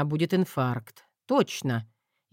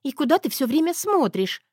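higher whiny wife's voice; whining wife; 11 semitones higher than usual. A narrator's reading. Wife whining at her staring husband, higher voice. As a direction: whimper the question up high. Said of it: "хныкнула Зоя".

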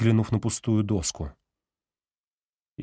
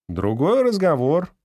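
довольно, с улыбкой; 7 semitones higher, 4 dB louder than usual. A narrator's reading. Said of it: "расплылся в довольной улыбке декан".

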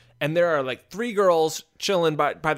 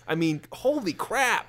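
whispered aside; 2 semitones higher, 3 dB quieter than usual. Real, not acted. Aside in disbelief.

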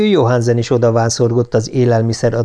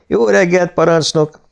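firm greeting, pitched higher; resolute; 7 semitones higher than usual. A narrator's reading. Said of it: "köszönt neki határozottan". (határozott köszönés)

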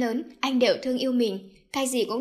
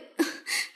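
sob; 4 dB quieter than usual. Acted. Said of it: "Cô khóc".

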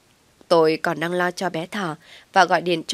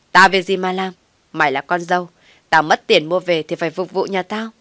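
loud, furious scolding; cursing; 6 dB louder than usual. Acted. Mother-in-law curses the daughter-in-law, loud and furious. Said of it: "rồi chửi".

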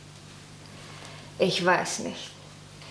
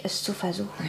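softly whispered request, voice fading; whispered to her parents, begging them to understand; whispered plea; 4 semitones lower, 8 dB quieter than usual. Acted. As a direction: breathe the last words of a plea. Maggie's pleading ends in a whisper.

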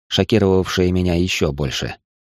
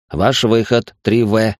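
robotic loudspeaker announcement; mechanical voice; 3 semitones higher, slower than usual. Acted. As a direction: announce it like a machine speaker. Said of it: "механический голос из динамика".

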